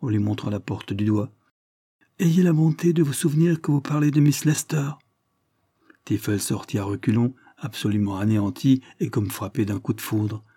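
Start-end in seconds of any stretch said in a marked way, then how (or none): 2.2-4.9 stern. A narrator's reading. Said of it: "d'un ton sévère".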